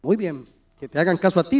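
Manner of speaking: low, soft, quick voice of the Spirit; gentle voice of God. Retold or imitated. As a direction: answer him gently from above. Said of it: "vino el Espíritu Santo y me dijo". (el Espíritu Santo, voz baja y suave)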